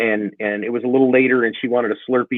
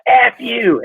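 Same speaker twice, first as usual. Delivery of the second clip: retold yell; 11 semitones higher, 4 dB louder than usual. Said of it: "but he said".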